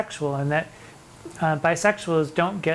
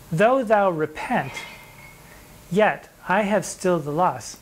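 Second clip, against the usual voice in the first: slow poem recital; 2 semitones higher, slower than usual. Acted. Teacher reciting a sonnet to students, slow and measured. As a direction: read the verse slowly and deliberately, each word weighed.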